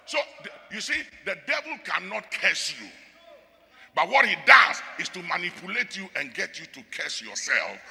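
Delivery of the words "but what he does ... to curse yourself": rising to a louder preach. Real, not acted. Preacher warning congregation about the devil, louder. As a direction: drive the point home.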